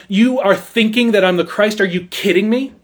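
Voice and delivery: incredulous disdain, drawing out "what stupid things"; disdainful, emphatic. Retold or imitated. John the Baptist rebuking his questioners, disdainful and emphatic. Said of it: "he holds these men in disdain".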